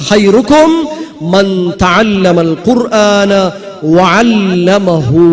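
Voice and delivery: slow, measured Arabic recitation with drawn-out syllables. Shown as a demonstration. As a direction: recite it solemnly, stretching the long vowels. Recites the Arabic saying he is teaching. (അറബിയിൽ സാവധാനം നീട്ടി പാരായണം)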